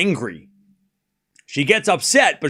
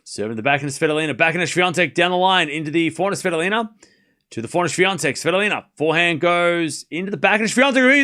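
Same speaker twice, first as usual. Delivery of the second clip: play-by-play; faster than usual. Real, not acted. Live tennis play-by-play.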